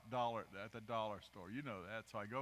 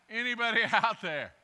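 laughing; 7 semitones higher, 11 dB louder than usual. Real, not acted. Repeating through laughter.

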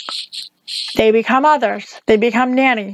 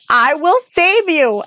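put-on a light girlish pitch, lifted higher; young Dorothy; 5 semitones higher, slower than usual. Dorothy answers the witch on the tower, higher girlish voice. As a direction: voice the girl a notch up.

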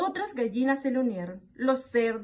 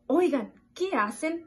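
higher-pitched storybook call; mild shout; 6 semitones higher, 3 dB louder than usual. A narrator's reading. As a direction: call out to the dancing animals. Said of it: "gritó". (grito moderado, voz más aguda)

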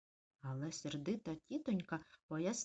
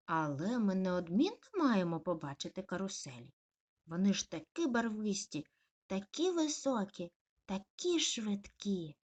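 gushing puppy; 5 dB louder than usual. Acted. Puppy raving to mum about carousels, gushing.

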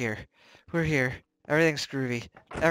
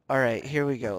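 usual speaking voice

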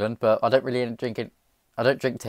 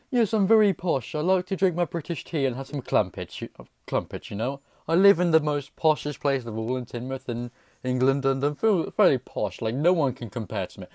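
mock posh British accent; 3 semitones higher than usual. Vlogger pretending to be posh with tea and crumpets, mock posh British accent. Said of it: "I'm joking".

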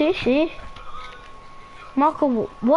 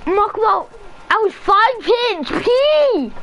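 distressed shout; 5 semitones higher than usual. Real, not acted. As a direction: yell it in protest. Complaining after nearly dying.

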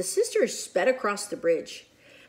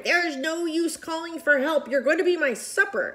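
mock dragon roar; 7 semitones higher, 3 dB louder than usual. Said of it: "The dragon was roaring".

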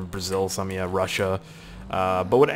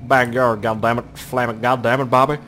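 slow, drawn-out put-on backwoods driver voice; mock redneck driver. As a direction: imitate the guy driving, stretching the words. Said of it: "Look at that fucking guy".

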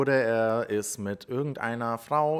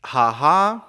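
loud, raised mock chant; louder, higher, far from real bawling; imitated bawling; 4 semitones higher, 9 dB louder than usual. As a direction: call it out like a retold bawl. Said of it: "lauthals ... diese Parole aus dem Fenster seiner Kölner Wohnung grölte".

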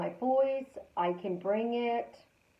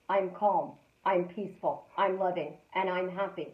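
slightly lower, steady calm affirmation; 3 semitones lower than usual. Shown as a demonstration. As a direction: recite it like a soothing mantra. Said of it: "Those words you literally can say out loud".

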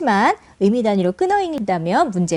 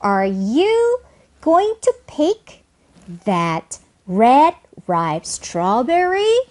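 slow chunks with "strawberry" climbing at the end; deliberate question, final rise on "strawberry"; rising yes-no question; much slower than usual. Shown as a demonstration. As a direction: pause between units, end "strawberry" going up. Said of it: "물음표를 향해 상승하다 끝".

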